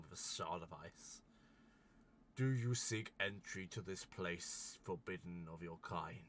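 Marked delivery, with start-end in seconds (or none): 2.4-6.2 lightly voiced, stern ancient guardian; solemn giant guardian. Ice giant challenges the adventurers at the gate, lightly solemn. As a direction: pose it as a measured, formal challenge.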